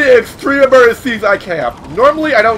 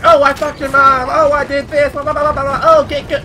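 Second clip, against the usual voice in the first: higher, whining kid-gamer imitation; mock trolly ten-year-old; 5 semitones higher than usual. Gamer mocking ten-year-olds who yell and complain, trolly kid voice. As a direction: imitate a bratty child mouthing off on the mic. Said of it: "trolly ten-year-olds to yell and complain".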